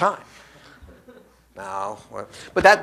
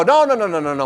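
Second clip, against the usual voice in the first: mock protest; 2 semitones higher, 5 dB louder than usual. Listener rejecting the speaker's idea, mock loud protest. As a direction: wave the idea off, loudly. Acting out a visual person objecting.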